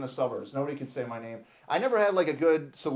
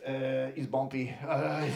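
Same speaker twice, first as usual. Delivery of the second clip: put-on struggling Spanish-accented English; slower than usual. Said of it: "have to try to speak English".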